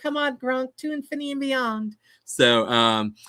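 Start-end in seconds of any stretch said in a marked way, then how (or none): 0.0-2.0 high cartoon hero voice. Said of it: "Toy Story Buzz line as Brady".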